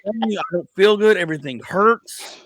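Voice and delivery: high, slow, pitiful whine; whiny complaint. Retold or imitated. Sick husband complaining to wife, high and whiny. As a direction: whimper it like a sick kid. Whining about being sick.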